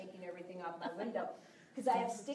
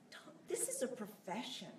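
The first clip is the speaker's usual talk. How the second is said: whispered; 6 dB quieter than usual. Real, not acted. Sudden drop to whisper.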